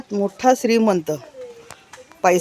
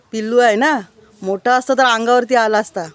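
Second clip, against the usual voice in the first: louder and higher, a touch thrilled; excited; 4 semitones higher, 4 dB louder than usual. Real, not acted. Vlogger telling viewers about the baby monkey, excited. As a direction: lift the voice, excited by the little monkey.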